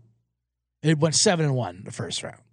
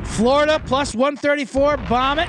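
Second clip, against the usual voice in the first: hyped recap; 8 semitones higher, 3 dB louder than usual. Real, not acted. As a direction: sell each bet like a sure thing. Hyped recap of betting picks.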